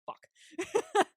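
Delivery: sudden high, loud curse of alarm; a nurse startled by the brain scan; shocked swear. Retold or imitated. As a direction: blurt it out in shock. Nurses notice something alarming.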